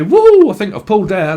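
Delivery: loud, high British lad cheering he's pulled; British lad accent. Retold or imitated. Reader mimics a British lad in a club, cheeky British accent. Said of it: "in Britain, we would say".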